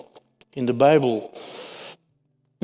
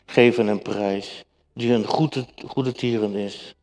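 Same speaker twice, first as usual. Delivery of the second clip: measured, slightly raised Bible reading; scripture reading. Acted. Preacher reads Jonah's prayer to the congregation, solemn reading.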